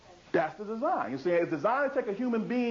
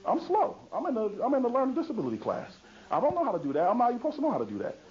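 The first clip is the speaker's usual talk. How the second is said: put-on defeated boy; 2 semitones higher, faster than usual. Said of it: "Michael's going around talking about".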